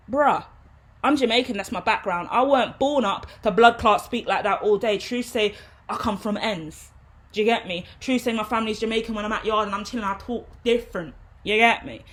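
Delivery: loud, lightly put-on Jamaican London slang; exaggerated Jamaican London slang. Shown as a demonstration. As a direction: play up the Jamaican roots, a bit loud. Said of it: "I'm exaggerating the context".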